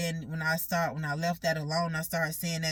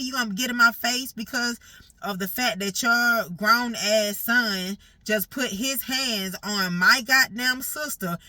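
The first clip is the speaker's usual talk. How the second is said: louder, slow, indignant confrontation; angry retort; 3 semitones higher, 6 dB louder, slower than usual. Retold or imitated. Granddaughter confronting grandma over her son, slow and angry. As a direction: spell it out slowly like a furious grandchild.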